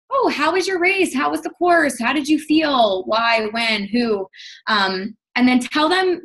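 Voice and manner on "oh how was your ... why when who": high, bright start that settles down; eager questions. Pretend. Asking a runner about her race, eager and upbeat. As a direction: sound keen to hear about their race. I ask open-ended questions like.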